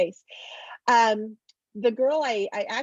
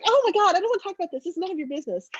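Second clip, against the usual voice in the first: put-on exasperated teen; 9 semitones higher, much faster than usual. Teen sister snapping at her nosy little sister, exasperated. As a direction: brush off the nosy kid sister. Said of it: "And she's like".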